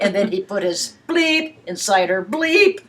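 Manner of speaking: laughing while saying bleep. Pretend. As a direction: giggle through the censored words. Laughing through censored sentence.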